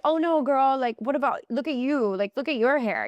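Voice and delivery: high mock girly deflecting; deflecting compliments. Her old self deflecting praise, high mock girly voice. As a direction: push it away in a high voice. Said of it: "really, like".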